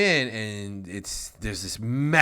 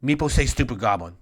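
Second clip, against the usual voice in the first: weeping kobold; 4 semitones higher, 6 dB louder than usual. Acted. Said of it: "Meepo starts weeping again".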